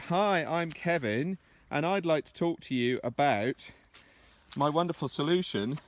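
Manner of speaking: mock a tired, boring pitch opening; boring opener. Shown as a demonstration. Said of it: "in a really boring".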